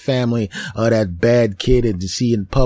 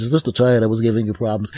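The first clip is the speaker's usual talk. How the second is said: lightly voiced worker; faster than usual. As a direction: ask it like a brisk worker.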